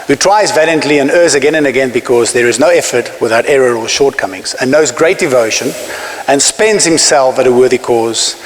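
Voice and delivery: measured, earnest reciting of a famous poem, slowing on key lines; poem recitation. Acted. Former captain reciting Roosevelt to an audience, earnest recitation. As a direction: deliver it like a creed you've read a hundred times.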